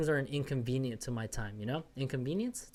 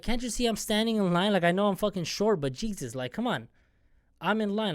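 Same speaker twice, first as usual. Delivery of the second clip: pretend rant; 5 semitones higher than usual. Imagined rant at the lady.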